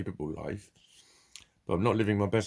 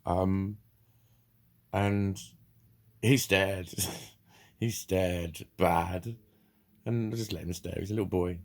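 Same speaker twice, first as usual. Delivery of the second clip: ordinary delivery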